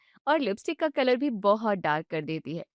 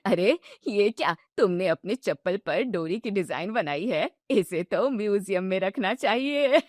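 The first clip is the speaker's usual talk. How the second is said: mocking; 3 semitones lower than usual. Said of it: "हंसते हुए कहती है".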